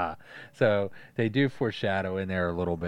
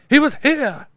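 much higher, louder cartoon exclamation; villain voice; 13 dB louder than usual. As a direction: screech it like a crazed villain. Quoting Judge Doom smelling the record.

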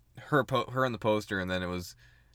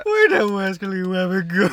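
higher, louder cartoon voice, laughing; heavy gas voice; 6 semitones higher, 6 dB louder than usual. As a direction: ham up the cartoon hunter. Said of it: "That's pretty good".

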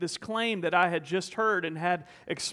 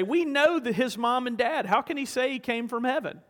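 mock complaining, pitched higher; retold fussing; 4 semitones higher than usual. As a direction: lightly imitate indignant grumblers in a raised pitch. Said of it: "out and out fussing and complaining".

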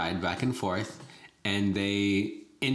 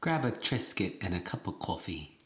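softer, mock New York accent; hint of New York in the vowels; put-on New York accent; 2 semitones lower, 5 dB quieter than usual. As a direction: say it like a Staten Islander. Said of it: "I don't know where that accent came from".

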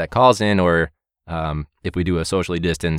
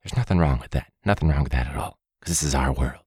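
Bob Ross impression. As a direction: gently reassure like a TV painting teacher. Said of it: "the Bob Ross mentality".

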